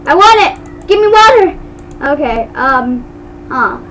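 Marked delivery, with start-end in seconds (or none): 0.1-1.6 playful demand. Pretend. Playfully demanding the water fountain.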